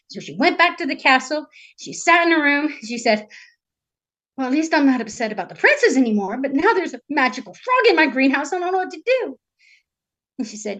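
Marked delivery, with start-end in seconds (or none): 4.4-9.4 tag fretting princess. Acted. Storyteller voices the worried princess.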